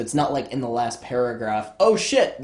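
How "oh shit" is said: mock twist shock. Mock last-paragraph twist reveal.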